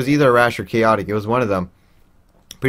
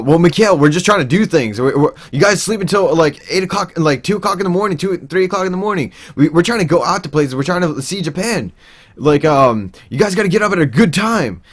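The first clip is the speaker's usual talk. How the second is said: higher mocking lecture voice; mock Maniclaw; 7 semitones higher than usual. Maniclaw scolding Mikhail, higher mocking lecture. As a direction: lecture him in a raised put-on voice.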